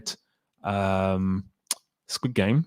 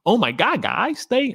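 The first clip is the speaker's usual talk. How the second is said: high, gushing fan voice, way up the scale; mock hyped fangirl; 12 semitones higher than usual. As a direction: gush like an over-the-top hype reviewer. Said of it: "that's a terrible accent".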